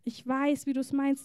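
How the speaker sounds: calm a hurt son with quiet sympathy; reassuring father. Acted. God the Father tells angry Saul it is good, reassuring. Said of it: "wie gut die Stimme des Vaters ist".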